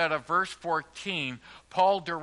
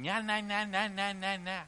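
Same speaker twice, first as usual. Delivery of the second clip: mock nattering; 3 semitones higher, 5 dB quieter than usual. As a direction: babble like someone nattering on. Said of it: "Nattering, going".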